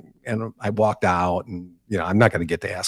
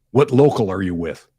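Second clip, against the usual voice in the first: louder, gruff, tough-guy voice; gruff labor boss; 5 dB louder than usual. Retold or imitated. Meany questioning the reporter's union, gruff and loud. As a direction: press him like a suspicious boss. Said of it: "And he says".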